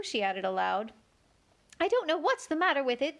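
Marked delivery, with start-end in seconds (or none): 1.8-3.2 melancholy. A narrator's reading. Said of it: "in a melancholy voice".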